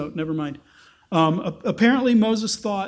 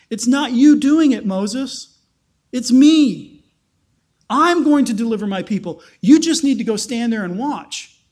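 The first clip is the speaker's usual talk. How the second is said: louder, insistent voice of God declaring; emphatic God voice; 2 semitones higher, 5 dB louder than usual. Acted. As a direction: proclaim it as God taking charge. Preacher voicing God reassuring Moses.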